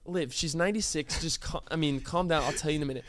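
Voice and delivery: soft, hushed aside to his wife; calm her down under your breath. Retold or imitated. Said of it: "I'm like".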